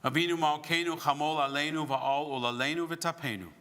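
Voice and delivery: chanted Hebrew prayer line; prayer leading. Real, not acted. Rabbi leading the Avinu Malkeinu, solemn prayer. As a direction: lead the congregation in prayer.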